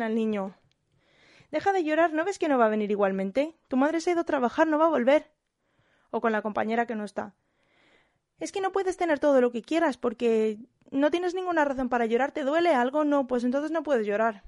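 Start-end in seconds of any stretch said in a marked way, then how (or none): 1.5-5.3 higher, louder impatient telling-off; stern scolding. Retold or imitated. Colleagues scolding a crying child. 8.4-14.4 put-on higher, sharper lecturing of a crying child; mock a cold impatient colleague; stern scolding. Colleague scolds child missing teacher.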